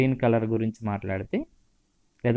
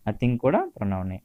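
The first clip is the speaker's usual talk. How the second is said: ordinary talk, nothing marked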